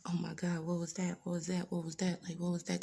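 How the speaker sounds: hushed, panicked what was that; frightened whisper. Retold or imitated. Woken from the dream, whispering in fright to herself. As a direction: whisper it, shaken awake. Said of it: "I'm like".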